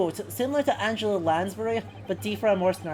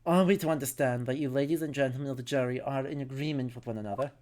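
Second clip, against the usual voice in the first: low, formal judge's voice; deep, measured courtroom authority; solemn judge; 7 semitones lower, 6 dB quieter than usual. Acted. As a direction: question the jury in a lowered, stately voice.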